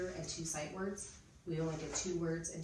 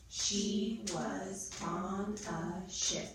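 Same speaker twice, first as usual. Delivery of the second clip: extremely slow, louder, every word separate; pounded-out sentence; 4 dB louder, much slower than usual. Shown as a demonstration. Teacher has pupils count the words, slow and pounded out. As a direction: pound out each word with a gap. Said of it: "go through our sentence again".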